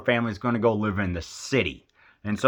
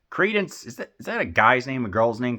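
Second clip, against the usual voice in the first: baffled question; 2 semitones higher than usual. Retold or imitated. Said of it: "I'm like".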